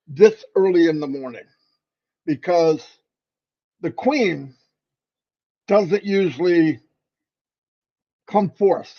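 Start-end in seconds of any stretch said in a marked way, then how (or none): 3.8-8.9 mock English accent. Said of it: "so I sound like I'm from England".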